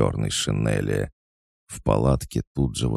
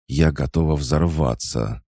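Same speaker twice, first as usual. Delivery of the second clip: high, louder, slow seething words; barely holding in her rage; furious, slow and loud; angry growl; 5 semitones higher, 5 dB louder than usual. Acted. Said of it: "прорычала раскрасневшаяся Сонька".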